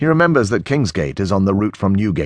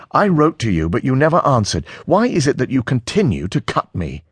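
higher, strained plea; voice pitched too high; 8 semitones higher than usual. A narrator's reading. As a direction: let the hurt push your voice up. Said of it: "Harry's voice is slightly higher than he would wish it".

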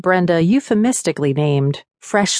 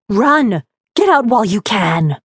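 a threat more than a warning; hostile warning; 4 semitones higher than usual. A narrator's reading. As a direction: bark it with no warmth. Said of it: "no warmth in the warning, just hostility".

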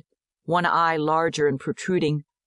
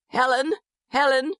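father's high, urgent calling; hoarse cry; 9 semitones higher than usual. A narrator's reading. Father calling to his deaf baby daughter, crying out. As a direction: call out the name in desperation. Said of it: "Keller cries hoarsely".

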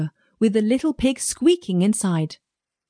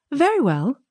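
piglet voice; 7 semitones higher than usual. A narrator's reading. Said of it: "said the little pig".

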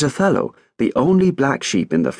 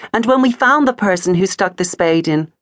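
high, anxious and breathless; nervous question; 9 semitones higher, 3 dB louder than usual. A narrator's reading. Heather asks the flock what comes next, nervously. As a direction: ask it fearfully, voice climbing. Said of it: "asked Heather nervously".

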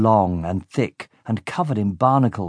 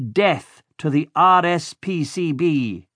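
higher, slow, solemn villain oath; villain leading a solemn oath; villain's oath; 6 semitones higher, slower than usual. A narrator's reading. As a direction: spell out R S P C B letter by letter, slowly. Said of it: "repeat after me".

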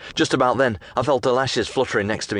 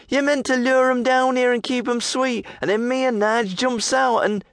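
hidden thug. Acted.

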